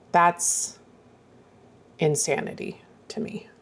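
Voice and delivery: breathless, awed whisper; hushed and stunned by the four years. Real, not acted. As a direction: whisper it as it sinks in. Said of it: "Sorry, that was a reality check".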